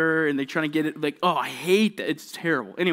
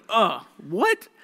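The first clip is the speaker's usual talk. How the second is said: put-on confused kid; 5 semitones higher, 3 dB louder than usual. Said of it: "just feeling dumb".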